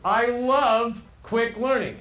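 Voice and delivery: high, slow, drawn-out gushing; high second pitch. Acted. Two-pitch presenter gushing about learning, high and sustained. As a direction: leap up and hold the note. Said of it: "just on two pitches".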